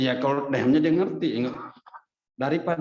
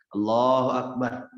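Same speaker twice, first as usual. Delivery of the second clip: loud prayer call; 3 dB louder, slower than usual. Shown as a demonstration. Wife praying aloud so husband hears, raised voice. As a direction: call Allahu Akbar out loud and slow. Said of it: "suaranya dibesarin".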